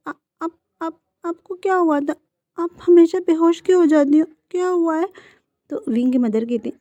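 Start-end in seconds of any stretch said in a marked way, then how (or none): 0.1-5.1 high, shaken urgent questions; anxious tearful questioning. A narrator's reading. Wing asking his recovered mother, high anxious questioning. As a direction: press her, scared and near tears.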